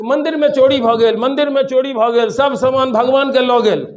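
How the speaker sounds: lightly imitated child's cry of alarm; mild mock yell. Sleeping child crying out about a temple theft, mild mock yell. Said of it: "चिल्लाने लगे कि".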